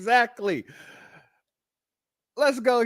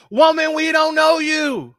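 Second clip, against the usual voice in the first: exasperated retort; 5 semitones higher, 4 dB louder than usual. Real, not acted. Retorting to a fan's clip.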